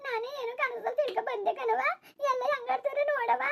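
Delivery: a soft, slow chuckle through the words; laughing aside. Acted. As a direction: laugh it off quietly. Amused aside during the quarrel.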